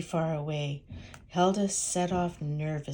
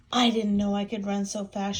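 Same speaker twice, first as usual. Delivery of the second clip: proud; 4 dB louder than usual. Acted. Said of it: "she clucked proudly".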